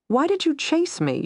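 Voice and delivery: high, insistent question; demanding. A narrator's reading. Woman pressing a knife on her pursuer, demanding. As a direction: demand an answer, pitch jumping up. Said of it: "she demanded".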